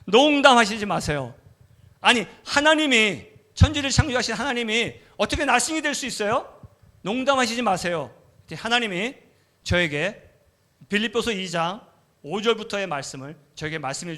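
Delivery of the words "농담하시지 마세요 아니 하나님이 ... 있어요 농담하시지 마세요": louder, higher, disbelieving; incredulous protest. Retold or imitated. Preacher arguing with God in disbelief, loud. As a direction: insist God must be joking. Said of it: "그랬어요".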